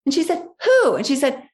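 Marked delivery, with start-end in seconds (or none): 0.6-1.0 alarmed mother. Retold or imitated.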